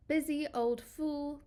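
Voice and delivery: put-on assertive, scornful recitation of busy old fool; confrontational. Shown as a demonstration. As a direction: scold the sun like a meddling fool. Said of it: "very assertive, confrontational tone".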